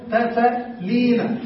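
تفعلين stretched out very slowly; teacher drawing out تفعلين for students; slow model answer. Shown as a demonstration. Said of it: "فماذا نقول؟".

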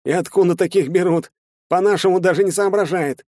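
high, loud jeering scorn; scornful mockery. Shtalin jeers at the big Arab, scornful. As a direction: sneer at the dumb newcomer.

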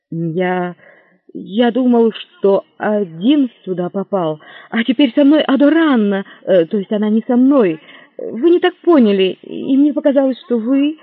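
flustered. Acted. Hero flustered explaining.

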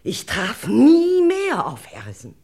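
high, loud sob on the words; tearful cry. Acted. Witness weeping about never seeing Harrison again, tearful. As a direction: break down crying over the lost man.

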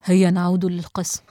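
steady the listener with a confident prompt; reassuring. A narrator's reading. Investigator comforting the shocked girl, reassuring. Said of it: "وقال بنبرة مطمئنة".

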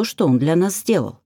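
ordinary delivery, nothing marked

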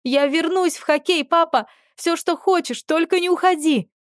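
very high, frantic crying plea; pleading scream. A narrator's reading. Дочь в слезах кричит отцу обещания, лишь бы он остался. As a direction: promise anything, screaming through tears. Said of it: "Продолжала кричать я".

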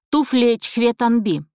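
mock casual. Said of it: "как бы невзначай".

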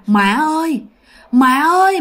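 imitated call in a Huế accent. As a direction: call out like a Huế daughter's ghost. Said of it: "mà kêu cái giọng người Huế". (giả giọng Huế gọi mẹ)

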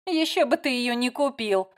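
a touch of a smirk, ещё stressed and falling. A narrator's reading. Layla teases Matt out loud, mildly smirking. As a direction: say it with a light mocking smirk. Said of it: "усмехнулась Лайла".

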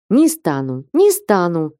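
plain reading voice

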